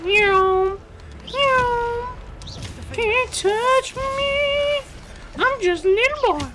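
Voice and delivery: high, lazy sleazy flirty cartoon voice; soft lazy flirty drawl. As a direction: drag it out, a creepy cartoon flirt. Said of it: "I've been doing that voice a lot longer".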